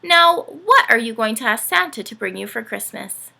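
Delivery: a cheerful uncle asking about Christmas; jolly uncle. Acted. Uncle asking Dorothy about presents, hearty. Uncle Benny voiced in story.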